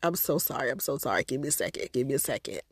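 a quiet teary plea for a moment; tearful apology. Retold or imitated. On the phone to auntie, softly choked up. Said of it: "I was like".

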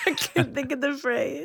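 laughing. Real, not acted. Laughing while groping for words.

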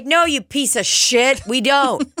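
high-pitched comic tirade; indignant rant with the pitch pushed up; exasperated retort. Retold or imitated. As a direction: tell off a picky customer. Acted retort to customer.

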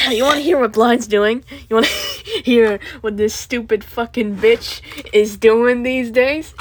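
loud mocking call; loud sharp voice. Real, not acted. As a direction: shout the question. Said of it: "I'm sorry for shouting".

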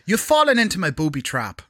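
mock Irish accent. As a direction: put on a lilting Irish accent.

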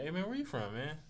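easygoing, sociable tone; friendly greeting. Shown as a demonstration. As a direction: ask "where you from" like a friendly hello. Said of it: "It's, it's a tone thing".

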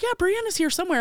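high mock dad voice; quoting her dad. Dad quoted again, higher.

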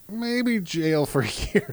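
mock addict logic, laughing. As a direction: giggle out the addict's bad idea. Mocking an addict's reasoning.

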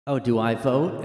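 lightly put-on southern accent. Proud voter showing off stickers, southern accent. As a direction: brag with a touch of southern twang. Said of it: "I have a southern accent".

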